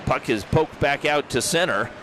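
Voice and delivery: brisk hockey commentator calling the action; play-by-play. Acted. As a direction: call the game live, rink announcer energy.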